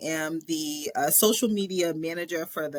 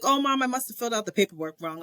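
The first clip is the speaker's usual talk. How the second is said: worried rush; 4 semitones higher, faster than usual. Retold or imitated. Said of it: "I'm like".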